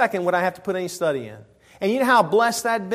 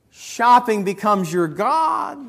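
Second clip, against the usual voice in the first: slow emphatic shout; preaching shout; 2 semitones higher, slower than usual. Real, not acted. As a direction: bring the list to a climax. Preaching climax.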